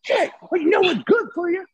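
high, strained mock-redneck holler; redneck bus driver. Host voicing bus driver threatening his friend, high-pitched redneck caricature. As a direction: imitate a hostile redneck yelling from a window. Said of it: "redneck dude. He rolls down the window".

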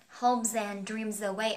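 "Hopes and dreams away" slowly joined, hope-zand dream-zaway; linked z sound. Shown as a demonstration. Teacher showing learners the z link, "Hopes and dreams away" slow and connected. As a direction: carry each z over to the next vowel in "Hopes and dreams away". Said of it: "Âm z nhá".

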